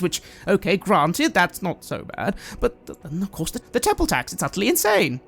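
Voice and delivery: agitated, rambling complaint; exasperated priest. Acted. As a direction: argue the injustice with rising indignation. GM voices the priest venting.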